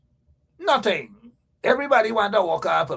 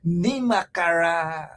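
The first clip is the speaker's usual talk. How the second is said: Nimakaram slow and weighted, each syllable deliberate; said with meaning; slower than usual. Shown as a demonstration. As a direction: lean into Nimakaram like an accusation. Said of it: "And you gotta say it with meaning too".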